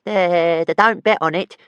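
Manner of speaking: squeaky dragon, not convinced at all; small doubtful dragon. A narrator's reading. Tiny dragon half-heartedly reassuring his master, high and doubtful. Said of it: "said Toothless, without a lot of conviction".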